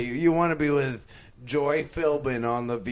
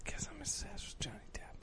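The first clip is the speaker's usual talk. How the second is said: hushed unvoiced whisper; 9 semitones higher, 16 dB quieter than usual. Real, not acted. Friends suddenly whispering about Johnny Depp, hushed. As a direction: whisper it like a secret. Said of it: "Why are we whispering?".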